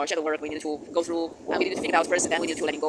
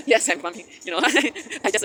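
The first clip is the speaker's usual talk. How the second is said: real giggles breaking up the words; talking through laughter; 5 semitones higher, 4 dB louder, slower than usual. Real, not acted. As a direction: keep talking while giggling, voice jumping higher. Giggling at her own word.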